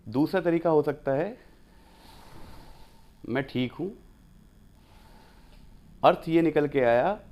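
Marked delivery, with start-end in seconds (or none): 3.3-3.9 "mind your own business" reply; dismissive. Shown as a demonstration. Teacher demonstrating a brush-off to "how are you", dismissively. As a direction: brush the question off. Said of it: "मेरी चिंता छोड़, अपनी चिंता कर".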